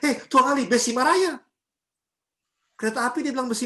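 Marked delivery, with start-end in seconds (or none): 0.1-1.4 loud, higher-pitched mock Ambonese yell; Ambonese shout. Preacher imitating how Ambonese people talk, shouting. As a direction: call out like someone hollering back home in Ambon. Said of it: "Orang Ambon biasa teriak".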